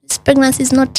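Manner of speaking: high, matter-of-fact doctor voice; blunt doctor. Retold or imitated. Doctor telling patient the pregnancy failed, high blunt voice. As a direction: state it flatly, pitched high. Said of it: "And she's like".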